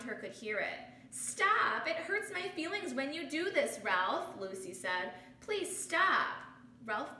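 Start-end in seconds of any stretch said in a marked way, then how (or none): 1.1-4.4 firm stop. Acted. Lucy confronts bully. 5.4-6.4 higher, louder please stop; firm plea. Acted. Lucy pleads.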